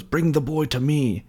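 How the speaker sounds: high, slow evil master; imitated dark lord's order; villain's command. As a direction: summon him with theatrical menace.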